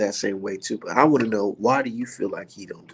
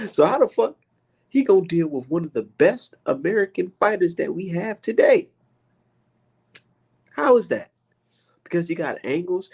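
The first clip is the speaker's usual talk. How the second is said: incredulous; 7 semitones higher than usual. Real, not acted. Streamer ranting at viewers, high incredulous outburst. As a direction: cry out in disbelief. Incredulous rant about Lomachenko.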